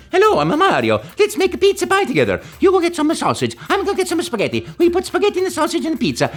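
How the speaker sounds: very high, fast Italian cartoon accent; Mario voice. At the audition, inventing the plumber on the spot, high and fast. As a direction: improvise like a goofy plumber chef. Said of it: "I go".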